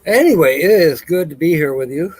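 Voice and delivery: speaking through a yawn; words stretched by a yawn. Real, not acted. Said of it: "Sorry about the yawn".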